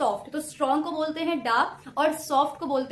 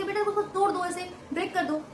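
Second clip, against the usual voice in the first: put-on patient teacher breaking a word for a child; इन्फॉर्मेशन spelled out slowly in syllables; 3 semitones higher than usual. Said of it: "तो आप उसे बोलेंगे". (बच्चे को समझाती teacher, इन्फॉर्मेशन धीरे धीरे तोड़कर)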